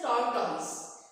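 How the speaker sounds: "tortoise" as tor-toys, both syllables full; common mispronunciation. Shown as a demonstration. Teacher shows what most say, "tortoise" with full toys ending. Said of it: "But it is not tortoise".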